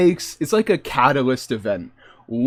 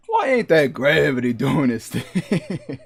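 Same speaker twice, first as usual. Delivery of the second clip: Southern gentleman. Acted. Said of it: "the Southern gentleman".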